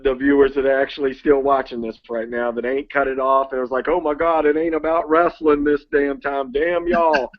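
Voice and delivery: tipsy. Real, not acted. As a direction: talk a little tipsy. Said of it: "Sorry, I'm a little bit tipsy".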